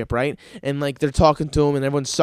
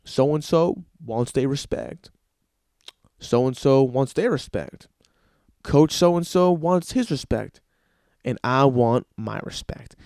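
mock LeBron; 5 semitones lower, slower than usual. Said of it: "he's like".

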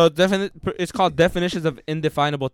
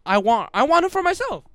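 mock yearning; 11 semitones higher, 3 dB louder than usual. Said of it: "she's like".

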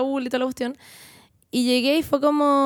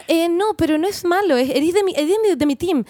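apurada en arreglar; 4 semitones higher than usual. Retold or imitated. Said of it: "me dice como".

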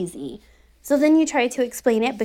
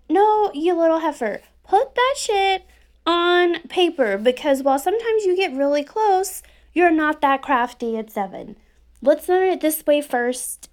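higher, louder mock scolding of a child; 5 semitones higher, 4 dB louder than usual. Mom scolding her seven-year-old to write math down, exasperated. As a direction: lightly play the nagging mom at the kitchen table. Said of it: "kind of what I say".

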